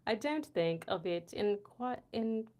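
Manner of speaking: lightly put-on British accent, trying too hard; effortful mock British, breaking off unsure. Reading a viewer's line, hesitant British accent. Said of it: "say this in a British accent".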